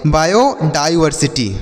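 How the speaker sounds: बायोडाइवर्सिटी as "baayo-dai-varsiti"; pronunciation demo. Shown as a demonstration. Teacher showing how to read a long word, बायोडाइवर्सिटी in clear parts. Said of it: "इस तरीके से पढ़ेंगे".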